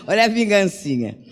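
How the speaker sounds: laugh, then tease lightly; a small real laugh leading into the remark; amused chuckle. Real, not acted. Ri ao comentar a história. (risadinha divertida)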